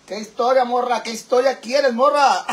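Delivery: lightly voiced macho, cracking into a laugh; mock man's voice. Streamer answering a request for a story, mock macho voice. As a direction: play a pushy guy, barely holding back laughter. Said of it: "si hablo feo, manas, como hombre".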